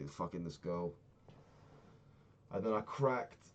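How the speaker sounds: ordinary talk, nothing marked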